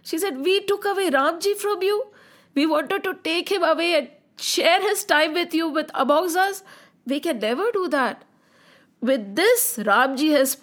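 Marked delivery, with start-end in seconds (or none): 0.5-8.2 mock-tearful, higher pleading; tearful apology. Sita apologises to Hanuman, mildly tearful higher voice. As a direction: plead with regret, lightly acting the tears. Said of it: "She started crying".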